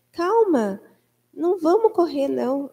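lightly acted soothing; retold calm. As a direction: gently talk down a worried nurse. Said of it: "com uma tranquilidade tão grande".

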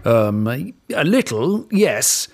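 hesitant, stammering king; a flustered king fumbling his words; nervous mutter. Acted. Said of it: "muttered the king nervously".

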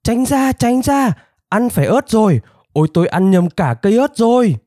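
very high, frantic elephant shriek; high-pitched hollering, little added volume; screeching. A narrator's reading. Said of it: "thét to đến nhức cả óc".

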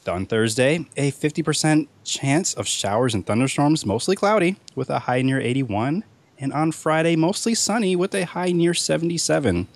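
newscaster weather forecast; weather report read. Acted.

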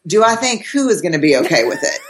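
mock-serious quoted challenge. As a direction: imitate a mildly stern, incredulous comeback. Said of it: "in this very serious tone".

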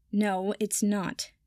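slow, sour grumble. Acted. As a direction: drag it out sourly. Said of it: "Draco said sourly".

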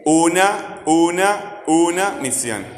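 "una" repeated with a high, punched U; stress on U in "una". Shown as a demonstration. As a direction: hit the U of "una" high each time. ("una" repetida con la U aguda y marcada)

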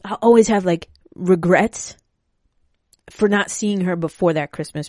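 emotional. Real, not acted. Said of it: "oh man, I'm gonna get emotional".

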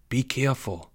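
soft, hushed caution; whisper. A narrator's reading. Boy warning his friend at the hatch, whispering. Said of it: "whispered Porge".

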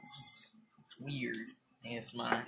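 hushed, low murmur; soft low ASMR-style murmur, spaced out; mock ASMR. Podcaster teasing a co-host with ASMR, hushed and low.

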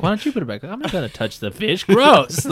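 high, whiny and grossed out; whiny sister. Retold or imitated. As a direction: whine it back high. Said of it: "they're like".

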